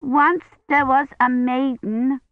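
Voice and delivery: put-on high, slow, pressing little girl; a small child insisting on her story; insistent child. A narrator's reading. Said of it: "Agnes said insistently".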